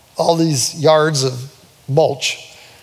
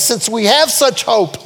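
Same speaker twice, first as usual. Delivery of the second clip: higher, slow scripture declaration; bold proclamation; 4 semitones higher than usual. Real, not acted. Preacher repeats Paul's words of hope, bold proclamation. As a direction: declare the hope deliberately, with a raised pitch.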